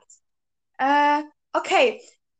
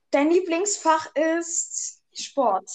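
glitchy robotic call; slower than usual. Real, not acted. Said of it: "ich verstehe dich ganz schlecht".

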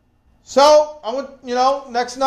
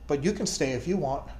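low and much softer, just to him; quiet offer; 7 semitones lower, 10 dB quieter than usual. Retold or imitated. The pastor turning quietly to the shy soldier, low offer. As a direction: say it aside so the others miss it.

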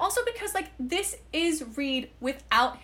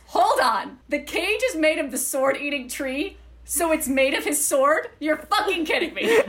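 all caps text read loud; 3 semitones higher than usual. Retold or imitated. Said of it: "all caps".

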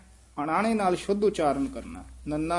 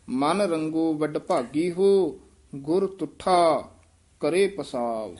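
careful recitation; slower than usual. Shown as a demonstration. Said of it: "ਵਡਭਾਗੀ ਬੋਲ ਕੇ ਨਾਲ ਹੋ ਬੋਲ ਦੇਣਾ".

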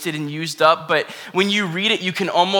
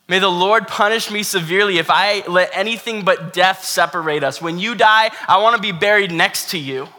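determined Ruth; 3 semitones higher, 5 dB louder than usual. Acted. Ruth's defiant vow, paraphrased.

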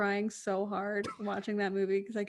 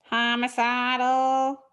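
very slow horror-trailer voice saying "Homicidal"; slow, ominous "Homicidal"; spooky announcer; 5 dB louder, much slower than usual. Pretend. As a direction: stretch "Homicidal" like a creepy movie trailer. Dramatic reading of horror title.

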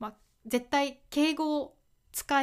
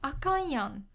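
Kansai accent on あかんやん; 関西弁; 3 semitones higher than usual. Shown as a demonstration. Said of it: "関西では使いますね。". (関西弁の抑揚で「あかんやん」)

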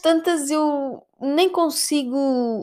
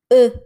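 open-mouthed gasp; 8 dB louder than usual. Shown as a demonstration. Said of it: "Eu neste momento estou de boca aberta".

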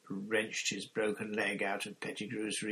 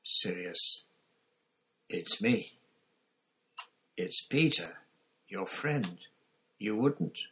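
lightly voiced pleading coward; grovelling plea. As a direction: beg on your knees, a hint.

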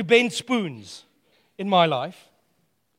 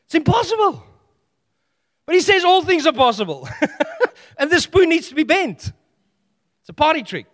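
laughing; 8 semitones higher, 5 dB louder than usual. Real, not acted.

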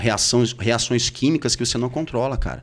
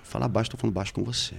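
soft, low, contained voice; speaking low; 9 dB quieter, faster than usual. Shown as a demonstration. Man showing how he talks when furious, quiet and serene. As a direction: demonstrate monk-like quiet composure.

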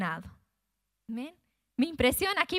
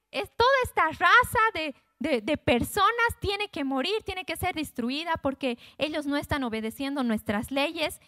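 Haman demanding; 3 semitones higher than usual. Retold or imitated. Preacher voices Haman demanding death.

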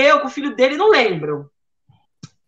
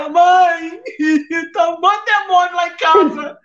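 higher, anxious plea to mom; scared daughter; 4 semitones higher than usual. Retold or imitated. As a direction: rush it out, frightened and pleading. Daughter running to parents, scared.

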